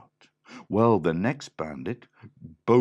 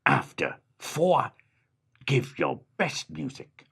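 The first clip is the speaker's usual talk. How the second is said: dog's count-in, rising on four; 6 semitones higher, 4 dB louder than usual. Acted. The dog counts the animals in for their music. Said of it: "and the dog said".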